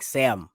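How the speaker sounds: "Sam" for seven, run into one syllable; St. Louis pronunciation. Retold or imitated. Host showing how a Saint Louis friend talks, "Sam" for seven. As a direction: say "Sam" as the Midwestern way of saying seven. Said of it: "they say, like, Sam".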